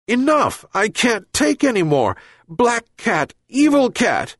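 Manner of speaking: put-on furious old man shouting; raging. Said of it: "he raged".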